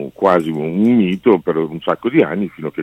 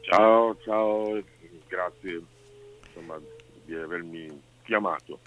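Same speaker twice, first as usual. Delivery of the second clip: on speakerphone; 7 dB quieter than usual. Real, not acted. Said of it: "ti sento un po' basso".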